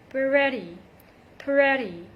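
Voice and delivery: pretty with a quick D flap. Shown as a demonstration. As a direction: say pretty as "priddy". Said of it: "between two vowel sounds".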